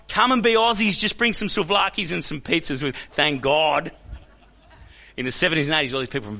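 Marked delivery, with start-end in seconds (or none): 0.1-3.9 higher, lively call of invitation; eager welcome. Acted. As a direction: welcome them in with open arms, higher and livelier. Voicing Australia welcoming new migrants.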